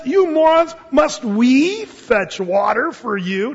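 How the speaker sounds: loud, high angry shout; ticked off. Retold or imitated. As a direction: scold the people for griping. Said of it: "Moses is all ticked off".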